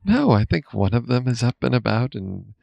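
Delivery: muted, like in a closet; dampened small-room sound; muffled room sound. Real, not acted. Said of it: "sounds all muted. Like you're in a closet".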